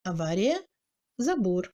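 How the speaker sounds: "Avaria, забор" with short first A; reduced A. Shown as a demonstration. Teacher showing reduction, light A in "Avaria, забор". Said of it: "mais réduit, pas nettement exprimé".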